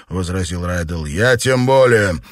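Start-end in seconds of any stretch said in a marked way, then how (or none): 1.1-2.2 exhaled retort. Acted. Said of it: "в тон ему выдохнул Честер".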